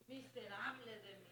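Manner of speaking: said brightly, far too happy for the words; too cheerful. Acted. Congregant reads the lament sounding happy, cheerful. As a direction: read it like good news. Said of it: "pero bien contenta lo dice".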